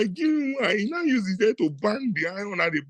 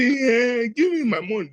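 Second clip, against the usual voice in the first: demanding shout; 4 semitones higher than usual. Retold or imitated. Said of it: "The woman has said".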